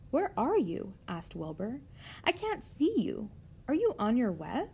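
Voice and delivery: lightly played anxious pig; anxious young pig. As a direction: ask it high, a touch worried. Voices anxious Wilbur the pig.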